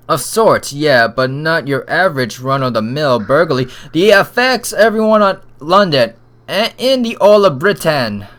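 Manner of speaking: lightly voiced British inspector. Inspector reveals a burglary case, hint of British accent. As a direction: build to a loud, emphatic announcement.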